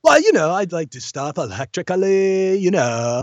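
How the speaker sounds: quirky character line; Electrics voice. Acted. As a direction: say it with deadpan oddness. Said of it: "performing the character line".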